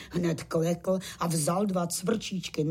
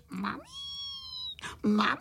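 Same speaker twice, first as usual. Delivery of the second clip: crying call; 3 dB quieter, faster than usual. A narrator's reading. Weeping little crickets call for their mother, wailing. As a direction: whine for mummy, first softly then fuller. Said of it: "brečeli na celé kolo a volali".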